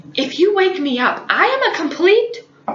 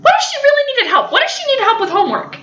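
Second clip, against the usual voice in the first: higher, faster scolding that lays on the guilt; guilt-tripping scold; 5 semitones higher than usual. Retold or imitated. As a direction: nag her sister into feeling bad. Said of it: "totally guilt trips me".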